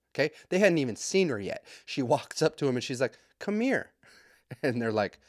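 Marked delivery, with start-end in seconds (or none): 3.4-3.9 put-on much higher, bossy child voice; imitated little girl. Confident daughter calling over little girls, child voice. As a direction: pitch way up, a small kid summoning others.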